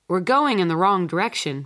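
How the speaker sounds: loud alarmed cry; cried out. Acted. Father cries out to mother at the wheel, loud and alarmed. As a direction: call out in alarm at a wrong turn. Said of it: "Father cried".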